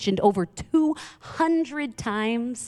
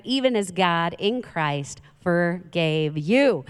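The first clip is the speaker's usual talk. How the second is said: slow, measured Bible reading with lifted key words; scripture reading; 2 semitones higher than usual. Real, not acted. Pastor reads Ephesians to the congregation, slow and emphatic. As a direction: read it out slowly, weighting each phrase.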